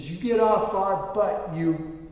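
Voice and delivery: retold angry driver, restrained; mock road-rage scolding, drawn out. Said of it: "I'm getting angry".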